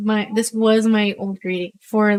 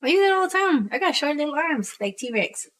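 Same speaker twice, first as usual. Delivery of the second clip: high, sing-song brag; mock confident; 8 semitones higher, 6 dB quieter than usual. Teasing her husband about the bridge, high mock boast.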